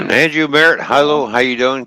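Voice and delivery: loud, high, upbeat hello; cheerful greeting. Real, not acted. Live-stream greeting a viewer.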